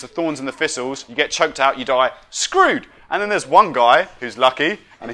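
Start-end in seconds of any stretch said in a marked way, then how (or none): 2.3-2.9 mock-screamed refrain. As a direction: blurt a screechy one-word verdict. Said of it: "are basically screaming".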